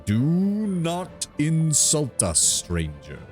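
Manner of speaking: slow, mildly offended tree giant; a hint of wounded pride, slowly; treant voice. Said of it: "a faint note of anger".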